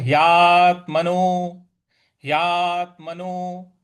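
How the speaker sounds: ह्यात्मनो slow, त lightly pressed; light stress on त. Shown as a demonstration. Teacher demonstrating the light stress to students. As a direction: lean gently on त in ह्यात्मनो. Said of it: "उस पे हल्का सा बल लगाना है".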